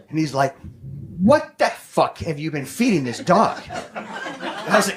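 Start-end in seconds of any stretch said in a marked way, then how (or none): 1.2-3.6 mock-angry vet, slow and emphatic; angry doctor. Angry vet to the dog's owner after surgery, imitated slow indignation. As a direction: draw out the outraged question, lightly acted. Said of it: "to a very angry doctor".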